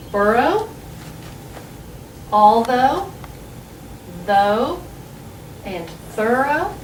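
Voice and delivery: "burrow, although, though, and thorough" each ending in a long O; O pronunciation. Shown as a demonstration. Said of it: "with the O pronunciation".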